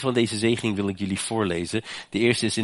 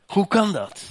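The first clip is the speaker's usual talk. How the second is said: "Hoe kan dat?" repeated a little lower; lower echo; 11 semitones higher, 4 dB louder than usual. Real, not acted. Preacher repeats "Hoe kan dat?" to the church, less high. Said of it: "echoed lower".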